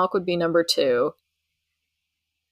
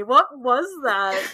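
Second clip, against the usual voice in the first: startled; 5 semitones higher, slower than usual. Real, not acted. Startled by sudden balloons.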